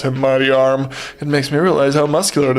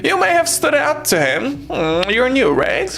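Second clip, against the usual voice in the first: sugary sister voice; high sweet Laurie; 10 semitones higher than usual. Acted. Laurie apologizes to the neighbor, high and sweet.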